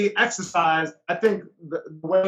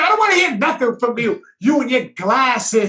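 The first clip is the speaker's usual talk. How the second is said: mock rude snap; 3 semitones higher, 5 dB louder than usual. Rude passenger insults friend.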